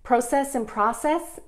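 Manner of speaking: slow, first process with long O, then process with short O; two ways of process. Shown as a demonstration. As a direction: contrast "PROH-cess" and "PRAH-cess". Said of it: "what else do I say funny?".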